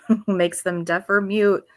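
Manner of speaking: reading through a laugh; real amusement breaking into the verse. Real, not acted. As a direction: let the laugh break into the words. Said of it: "And I'm laughing".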